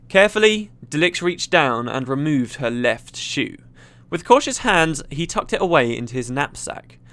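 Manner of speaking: measured, dramatic storytelling; story narration. A narrator's reading. Gamer reads a fantasy story to viewers, dramatic narration. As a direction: read it out like a tense adventure tale.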